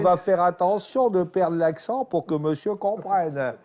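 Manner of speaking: mock careful Parisian accent, teasing the customer. Shown as a demonstration. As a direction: put on a Parisian way of speaking. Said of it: "je vais essayer de parler comme les Parisiens". (accent parisien imité, pour taquiner)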